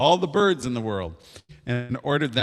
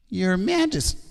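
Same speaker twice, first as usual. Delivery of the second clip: high, nervous little bird; trembling hoopoe; 10 semitones higher than usual. Acted. Hoopoe has one riddle left, trembling and high. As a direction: address the king high and timid. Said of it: "this time it trembled".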